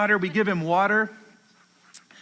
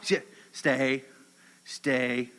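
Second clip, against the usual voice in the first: low, soft stay command; hushed, steady command to a dog; 7 semitones lower, 6 dB quieter, much slower than usual. Real, not acted. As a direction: hold the dog still with a quiet, low word.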